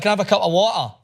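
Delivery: put-on Scottish accent, polite request. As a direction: repeat the order in a Scottish accent. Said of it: "I was like".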